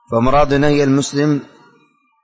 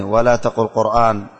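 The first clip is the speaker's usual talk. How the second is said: slow dictation; slower than usual. Shown as a demonstration. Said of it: "اكتبوا البيت هذا".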